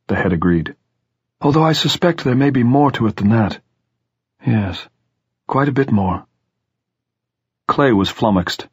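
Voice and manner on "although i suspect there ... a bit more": lightly voiced old headmaster, pitched up; hint of a scholarly man hinting at more; measured, pondering schoolmaster; elderly headmaster, pondering. A narrator's reading. Head's dialogue in story.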